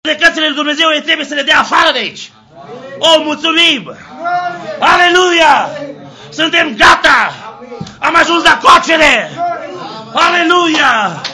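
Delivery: preacher roaring to the congregation; full-force preaching. Acted. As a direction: shout the victory like a revival preacher. Preaching climax.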